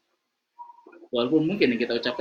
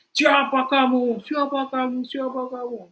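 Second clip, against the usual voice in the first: put-on child's challenge; 13 semitones higher, 4 dB louder, slower than usual.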